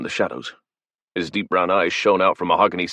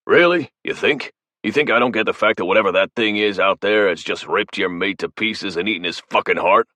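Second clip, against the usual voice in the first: furious outburst; 3 semitones higher than usual. Acted. Flynn berating the cowering academic, furious. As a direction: blow up at him, seething.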